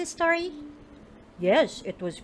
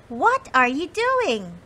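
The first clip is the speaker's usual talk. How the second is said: curious mouse; 4 semitones higher, 5 dB louder than usual. Acted. Mice calling to Molly.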